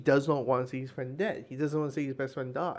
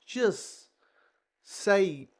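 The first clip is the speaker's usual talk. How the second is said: higher, exasperated pleading; a touch of an impatient hero fed up; exasperated Green Arrow; 5 semitones higher, slower than usual. Retold or imitated. Green Arrow nagging Supergirl and Kong, mildly exasperated. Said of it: "Green Arrow saying".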